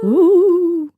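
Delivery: a high ghostly ooh, loud and drawn out; spooky ooh. Acted. Host opens the Halloween episode with a ghostly ooh. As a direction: moan it like a ghost.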